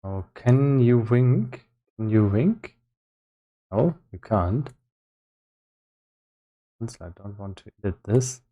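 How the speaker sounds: usual speaking voice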